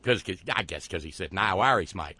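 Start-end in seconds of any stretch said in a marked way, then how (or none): 1.3-2.1 brief mock Australian accent; Australian Jesus. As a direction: toss it off in Aussie vowels. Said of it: "I don't know why Jesus is Australian this evening".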